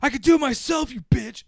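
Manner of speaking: 2 high, loud, indignant yell; 3 snap it back like a proud cripple refusing help; 4 squeaky furious protest; 1 mock angry outburst.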